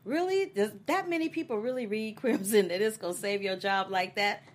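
high, mocking disbelief; incredulous scoff. Mocking a character's plan with high disbelief. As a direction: scoff at her like she's dreaming. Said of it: "And I'm like".

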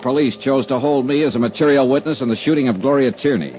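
brisk formal report read over music; report narration. A narrator's reading. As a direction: read out the expense account like an official ledger.

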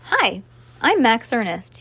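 usual speaking voice

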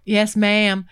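lightly voiced smooth flirt; a touch of Southern charm; imitating a flirting cowboy. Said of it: "turn it on".

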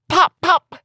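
high, loud excited cry; excited children. A narrator's reading. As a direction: shout it like playing children.

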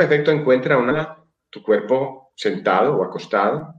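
calm, even breathing instructions; guided meditation. Acted.

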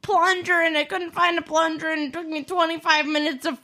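loud exasperated rant; heated family shouting. Real, not acted. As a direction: vent it loud and high. Heated rant about the plunger.

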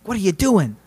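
lightly voiced ghost shepherd, scolding. GM voicing the ghost shepherd at the vampire, mild scolding. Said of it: "ghost shepherd over here going like".

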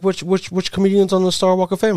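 high-pitched put-on partner voice; imitating his lady. Host imitating his lady questioning him about the podcast, high mimicry. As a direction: stammer the question high, as your partner would. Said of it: "my lady be like".

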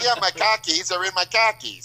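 put-on high, loud Boston accent with dropped R; a Boston joke about khakis. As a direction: say khakis like car keys in Boston. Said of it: "Boston car keys joke".

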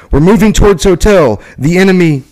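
urgent report over the handset; crackly military radio. Acted. Radio report during firefight.

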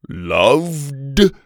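affronted Viking query; Viking challenge. Acted. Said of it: "the Viking said".

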